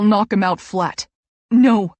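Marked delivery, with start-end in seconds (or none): 1.5-1.9 begging. A narrator's reading. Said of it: "I beg".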